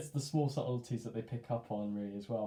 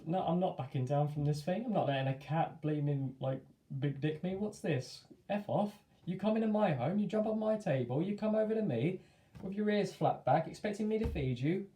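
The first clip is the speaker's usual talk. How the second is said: defiant inner rant; 6 semitones higher than usual. Retold or imitated. Inner defiance toward intruding cat.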